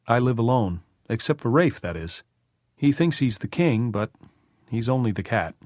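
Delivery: lightly voiced homeowner, lilting upward; Tom, chatty about his cat. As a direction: chat lightly, pitch lifting on key phrases. Narrator voices Tom in dialogue.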